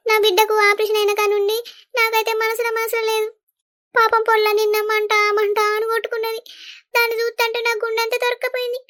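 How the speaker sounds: a touch of tears while remembering her daughter's pain; mildly tearful. Acted. Mother to her sister-in-law, telling of her daughter's pain, softly tearful. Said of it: "ఏడవకు, ఏడవకు వదినా".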